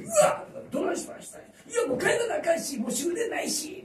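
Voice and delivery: high, loud mock-flustered woman; flustered Cinderella. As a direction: squeal like a showy princess.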